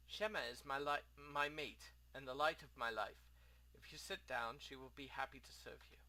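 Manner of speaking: lightly voiced foreign innkeeper; a hint of an exiled host; courteous innkeeper. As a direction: speak formally, with a rough try at an accent. Plays the innkeeper.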